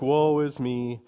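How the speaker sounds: lightly imitated woe-is-me complaint; mock self-pity. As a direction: quote the self-pitying type in passing. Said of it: "just an expression of self-pity".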